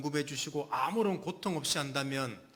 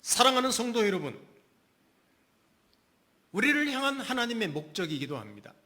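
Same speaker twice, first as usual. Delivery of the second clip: forceful preaching; 6 semitones higher, 5 dB louder than usual. Acted. Preaching climax to congregation.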